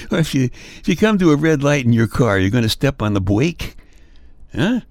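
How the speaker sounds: mock indignant. Mock rant about dropped R.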